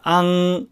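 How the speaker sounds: "アン" drawn out to end in ng; velar n. Shown as a demonstration. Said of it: "密着させるアン".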